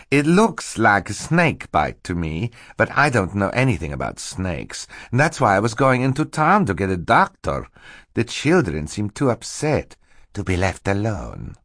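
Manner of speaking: false Stefano. Acted. Stefano invents his story for Mister Poe, falsely concerned. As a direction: explain with feigned innocence.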